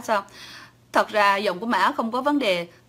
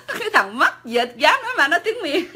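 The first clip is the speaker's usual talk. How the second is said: laughing; 6 semitones higher, 3 dB louder than usual. Real, not acted. Cười khi kể chuyện bị chê.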